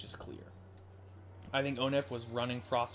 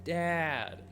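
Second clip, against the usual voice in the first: higher, louder drawn-out call; long, raised-pitch character exclamation; acted cry of relief; 5 semitones higher, 4 dB louder than usual. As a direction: exclaim it as the overjoyed daughter. Voices daughter as father wakes.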